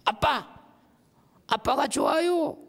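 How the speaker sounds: put-on high, sweet little child calling daddy; child's voice. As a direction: sound like a small kid talking to dad. Preacher voices child praying to daddy. (아빠에게 말하는 어린아이 목소리)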